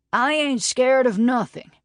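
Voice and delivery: a proud man snapping back that he's scared of nothing; indignant denial. A narrator's reading. Roscoe rising to Dobbs's bait, indignant and loud. Roscoe provoked, denies fear.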